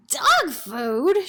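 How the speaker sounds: lightly shrieked outrage; mock shriek. A narrator's reading. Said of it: "shrieked the manager".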